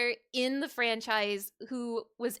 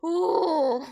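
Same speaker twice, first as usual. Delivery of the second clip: laughing cry; 6 semitones higher, 5 dB louder than usual. Real, not acted. Overwhelmed reaction to the fight.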